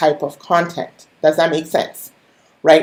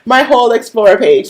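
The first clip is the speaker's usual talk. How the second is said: exasperated groan; 6 semitones higher, 5 dB louder than usual. Retold or imitated. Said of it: "I was like".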